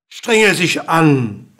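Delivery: slow, drawn-out command; calling out. A narrator's reading. King urging the dwarf to try harder, calling out slowly. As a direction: stretch the order as you call it. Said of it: "rief der König".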